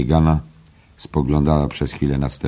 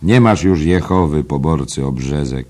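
mocking tirade; 3 semitones higher, 6 dB louder than usual. Mulligan mocks.

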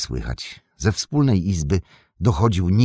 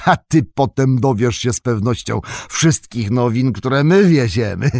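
Gandalf; 6 semitones higher, 5 dB louder than usual. Acted. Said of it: "zaśmiał się Gandalf".

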